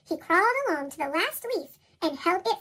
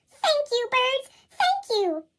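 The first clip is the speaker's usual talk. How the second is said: Fletcher gasping thanks; 7 semitones higher, slower than usual. Acted. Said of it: "he gasped".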